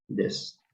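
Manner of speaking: Des whispered without voice, short vowel; Des, whispered model to repeat; whispered sound demo. Shown as a demonstration. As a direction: Des breathed softly as a model. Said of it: "Repite en tu casa".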